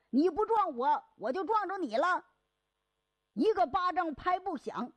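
quarrelling. Acted. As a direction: sneer at his eyesight. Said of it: "这两个人就吵起来了".

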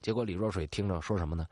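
ordinary delivery, nothing marked

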